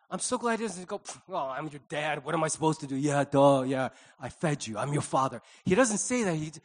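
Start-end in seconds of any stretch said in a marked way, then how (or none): 1.0-5.4 grudging dad. Acted. Mock grudging dad, the rejected reply.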